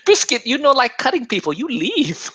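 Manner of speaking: put-on high Asian accent laughing through; bossy Asian accent, giggling. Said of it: "Andrew's much better".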